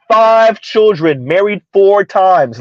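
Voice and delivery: put-on Five children, married four times, each word drawn out slowly; slow, deliberate repeat. Shown as a demonstration. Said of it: "Say that again".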